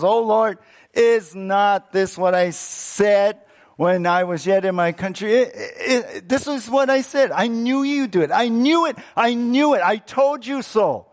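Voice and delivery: high, heated I-told-you-so; indignant grumbling. Acted. Jonah reproaching God for sparing Nineveh, indignant. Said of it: "He's grumbling".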